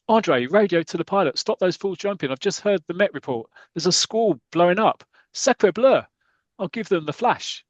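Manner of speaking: mock Frenchman raising the alarm; French airfield man. French airfield worker warns pilot.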